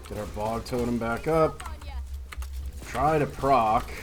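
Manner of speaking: tense callouts. Real, not acted.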